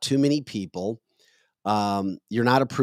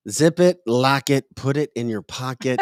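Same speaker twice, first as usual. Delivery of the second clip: scolding; 2 semitones higher, 3 dB louder than usual. Real, not acted. Scolding DeSantis directly, loud.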